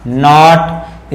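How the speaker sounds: नॉट slow and drawn out, starting on n; silent-k model. Shown as a demonstration. Teacher repeats the answer for students, silent-k model. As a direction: stretch नॉट with no k sound. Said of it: "हम इसको पढ़ेंगे नॉट".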